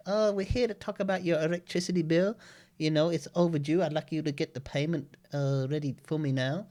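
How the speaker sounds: high put-on Filipino call-centre voice; imitating the caller. Caller chasing an overdue electricity bill, high mock Filipino accent. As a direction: mimic the caller demanding payment. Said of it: "she's just like".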